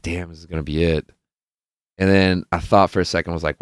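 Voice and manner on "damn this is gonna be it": softer, lower, resigned retelling; almost defeated. Retold or imitated. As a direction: drop it down as if nearly giving up. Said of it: "almost defeated".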